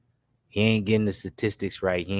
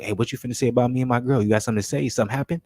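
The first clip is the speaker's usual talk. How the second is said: defensive; 3 semitones higher, faster than usual. Retold or imitated. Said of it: "let's say he gets mad defensive".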